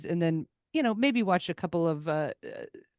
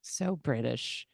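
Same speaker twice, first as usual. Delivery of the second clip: mock British; 6 semitones lower, 8 dB quieter, slower than usual. Mock British accent banter.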